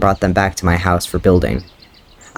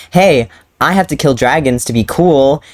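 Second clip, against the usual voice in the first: mocking Hiccup; 5 semitones higher than usual. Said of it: "took the plot of How to Train Your Dragon".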